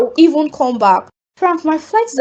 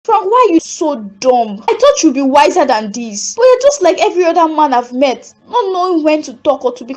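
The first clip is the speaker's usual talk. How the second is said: scornful scolding; 2 semitones higher than usual. Acted. Sophie scolding Frank for proposing, exasperated and rising. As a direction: tear into him for being so foolish.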